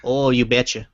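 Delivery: a hint of Minnesota, you betcha; light folksy Midwest twang; Minnesota accent. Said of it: "the Minnesota accent".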